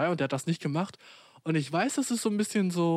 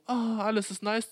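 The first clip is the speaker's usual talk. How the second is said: high-pitched carefree sigh, all is nice; 6 semitones higher than usual. Acted. Storyteller setting up a sudden mood switch, acted carefree. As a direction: act blissfully unbothered, lifted in pitch. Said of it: "so war der Situationswechsel".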